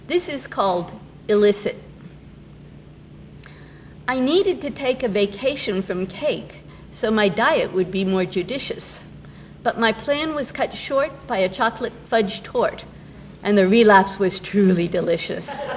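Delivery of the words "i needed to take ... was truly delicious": measured reading of light comic verse; poem recitation. Acted. Poet reading her diet poem to an audience, measured recitation. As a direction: recite the verse, lifting line openings.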